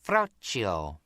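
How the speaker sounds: lightly put-on Italian accent on a single word. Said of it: "putting on her accent".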